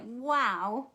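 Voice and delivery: ordinary talk, nothing marked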